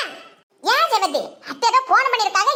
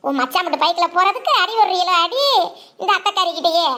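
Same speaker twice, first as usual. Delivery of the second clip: lower, sulky aunt grumble; the aunt mutters her complaint, lower; grumbling aunt; 4 semitones lower than usual. Acted. Aunt grumbles about the bike.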